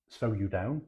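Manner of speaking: lightly put-on Norfolk drawl on slow you down; a hint of Norfolk on slow you down; bad Norfolk accent. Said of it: "which I have to say in a really bad accent".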